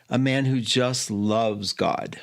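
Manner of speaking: slow, gently sincere quote; simple, heartfelt. Retold or imitated. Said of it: "that's how he said it".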